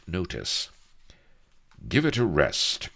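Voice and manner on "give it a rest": higher and louder, irritated snap; irritably. A narrator's reading. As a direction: brush her off impatiently. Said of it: "quo he irritably".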